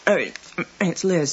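talking with a mouthful; words round a bite of lunch; mouth full. Real, not acted. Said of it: "Sorry, I've got my mouth full".

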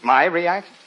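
quick questioning rise, full voice; pleased surprise. Acted. Husband asked by the reporter for his reaction, surprised. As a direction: perk up at being asked.

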